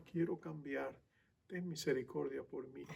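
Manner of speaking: soft, low plea for mercy; hushed, humble praying; quiet prayer. Acted. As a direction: pray it softly, voice dropped.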